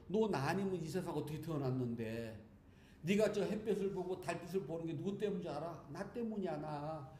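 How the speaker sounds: a hint of a parent proudly claiming credit; lightly voiced, confident parent to child. Parent telling the grown child to be grateful, mildly proud. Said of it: "좀 당당하게 안 미안해도 된답니다".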